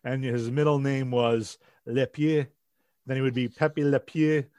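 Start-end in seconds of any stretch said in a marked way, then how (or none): 1.9-4.5 lightly put-on French accent; badly faked French pronunciation; horrible French accent. Co-host pitches a baby name, in a bad French accent. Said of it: "that's my horrible French accent".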